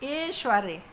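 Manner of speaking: "ऐश्वर्य" opening with ay, esh-varya; mispronounced demo. Shown as a demonstration. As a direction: say "ऐश्वर्य" with a plain e at the start. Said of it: "ऐश्वर्य नहीं". (अशुद्ध उच्चारण: "ऐश्वर्य" को एश्वर्य)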